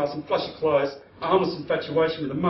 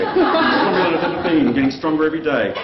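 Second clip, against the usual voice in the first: louder self-pep chant; loud affirmation; 6 dB louder than usual. Acted. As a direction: pump yourself up, louder. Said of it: "I can do this".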